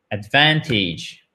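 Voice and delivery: "Advantage" slowly as "advɛtiʒ", stress on "van"; slow French-accented try. Shown as a demonstration. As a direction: let "Advantage" run slowly, "van" barely nasal. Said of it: "Vous avez votre consonne qui est prononcée".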